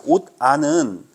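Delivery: 옷 안은 said slowly; slow word demonstration. Shown as a demonstration. Teacher showing students how the word is sounded, slow. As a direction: draw out 옷 안은 at a careful pace. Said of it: "이 옷은 어떻게 발음해".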